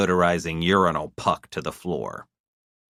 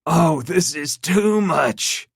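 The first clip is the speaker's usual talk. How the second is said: laughing; 11 semitones higher, 4 dB louder, slower than usual. A narrator's reading. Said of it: "Clement began to laugh".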